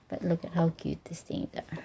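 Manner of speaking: soft delighted whisper. Real, not acted. Vlogger admiring tiny bottles for viewers, whisper. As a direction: breathe it out in awe. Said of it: "I don't know why I'm whispering".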